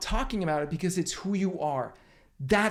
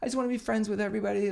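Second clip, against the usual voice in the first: wishy-washy; 4 semitones higher, 3 dB quieter, faster than usual. Retold or imitated. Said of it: "wishy-washy".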